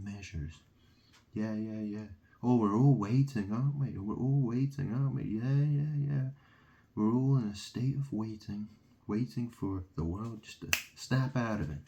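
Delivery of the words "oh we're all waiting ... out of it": sarcastic singsong mimicry of waiting believers; mock them in a louder, sneering lilt; mocking sing-song. Mocking believers who wait for the end, sneering singsong.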